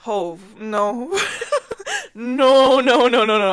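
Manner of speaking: high, loud laughing no's; laughing refusal. Retold or imitated. Laughing refusal to a guy's late invite.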